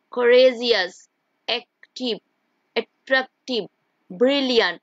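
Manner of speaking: each word sounded out in beats; syllable by syllable. Shown as a demonstration. Teacher showing words of several syllables, beat by beat. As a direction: separate the syllables of each example. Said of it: "more than one syllable".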